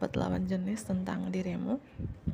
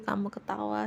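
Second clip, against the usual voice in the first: ordinary talk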